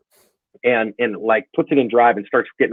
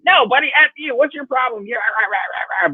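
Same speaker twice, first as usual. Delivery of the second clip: mock angry comeback; 13 semitones higher than usual. Imagined angry comeback to driver.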